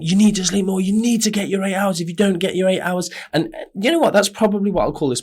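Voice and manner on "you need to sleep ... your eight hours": higher-pitched mock nagging about sleep; mocking lecture. Host mimics practitioners nagging clients about sleep, in a mocking, high, preachy voice. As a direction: parody a preachy coach who keeps saying you must sleep more.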